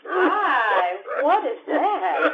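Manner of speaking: words breaking into laughter; amused, half-shouted question; laughing outburst. Acted. She finds something odd, laughs.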